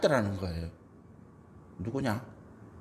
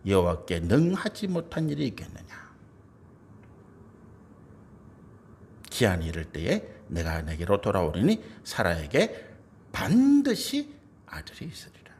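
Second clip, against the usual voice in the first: low, measured Bible reading; scripture reading; 10 semitones lower than usual. Acted. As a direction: read the verse out solemnly, well below preaching pitch. (낮고 엄숙한 성경 낭독)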